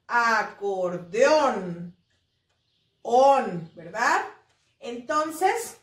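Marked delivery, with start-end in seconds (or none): 0.1-2.0 "Acordeón" very slow, lower, leaning on ÓN; stress on last syllable. Shown as a demonstration. Teacher asking chicos for the sílaba tónica, last syllable stressed. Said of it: "Cuál es la sílaba tónica". 3.0-3.7 "On" isolated, loud and lower; stressed syllable alone. Shown as a demonstration. Teacher answering which syllable is tónica, stressed syllable alone. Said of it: "Cuál es la sílaba tónica".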